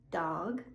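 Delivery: Dog with a voiced G at the end; voiced final G. Shown as a demonstration. Teacher contrasting Dog with dock. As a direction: let the G in Dog carry voice. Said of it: "I will say the voiced word first".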